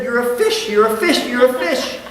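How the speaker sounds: high, loud sing-song blessing; mock baptism. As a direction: intone it like the priest over water. Mimics the baptism on the chicken.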